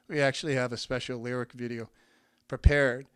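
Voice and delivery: slightly winded, nervous talk; speaking short of breath. Real, not acted. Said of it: "I feel like I'm out of breath".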